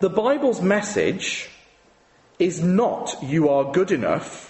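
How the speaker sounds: very slow, each word spaced out, deliberate emphasis. Speaker making a point as clear as possible, saying it as slowly as possible. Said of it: "I'm going to say this as slowly as I can".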